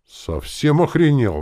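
loud, high, slow outburst; exclaiming. A narrator's reading. Uncle reacting to the plan to rob assassins, exclaiming. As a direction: cry out in outraged disbelief. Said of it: "воскликнул дядя Фрол".

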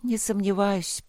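slow, sighing resignation. Acted. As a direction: sigh it out wearily. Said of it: "со вздохом проговорила она".

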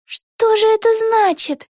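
high, slow puzzled wondering. A narrator's reading. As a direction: Vega racking her brain. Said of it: "ломала голову Вега". (высоко и медленно, в раздумье)

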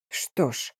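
тихо и низко; негромко, задумчиво. A narrator's reading. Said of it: "тихо сказал Феликс". (тихое «что ж»)

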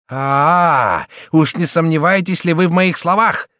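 high, indignant challenge; long-drawn "ah", then a heated high question; angry exclamation. A narrator's reading. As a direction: cry out in offended anger. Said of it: "вскричал Шико с пылающими глазами".

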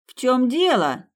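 high, loud, slow call from afar; shouted call. A narrator's reading. A boy shouting to the women across the field, loud. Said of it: "крикнул кто-то из парней".

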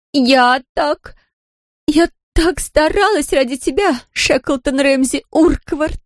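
put-on high drunken outcry, slow on the full name; very loud. A narrator's reading. Drunk Larisa loudly scolds Ramsey by full name. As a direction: declare it loudly, dragging out his name. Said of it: "очень громко заявила она".

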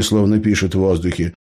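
ordinary delivery

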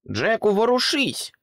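high, loud urgent call; urgent shout again. A narrator's reading. Pig repeating her cry to frozen Jack. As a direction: yell at him to move. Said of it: "повторила різдвяна свинка".

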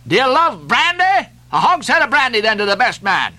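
high-pitched, goading harangue; crying to the crew. A narrator's reading. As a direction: egg your rowers on to pull harder. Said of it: "cried Stubb to his crew".

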